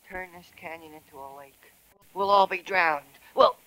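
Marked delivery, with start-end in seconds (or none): 3.3-3.6 loud alarmed call, louder. Acted. Frog calls out to Myrtle in alarm, loud call. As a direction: yell the news across the canyon.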